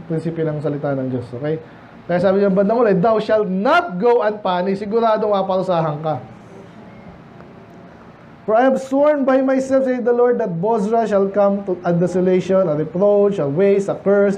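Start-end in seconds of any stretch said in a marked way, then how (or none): 3.0-4.8 slow, deliberate Bible reading; scripture reading. Acted. Preacher reading verse to the congregation, slow and solemn. 8.4-14.4 slow, deliberate Bible reading; scripture reading. Acted. Preacher reading verse to the congregation, slow and solemn.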